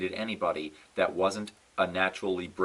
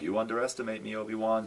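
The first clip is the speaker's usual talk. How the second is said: imitating Anakin; faster than usual. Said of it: "at the end of Revenge of the Sith".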